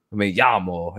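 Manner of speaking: ME LLAMO slowly, in an American accent; unaltered American-accented Spanish. Shown as a demonstration. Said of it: "very American accent trying to speak foreign languages".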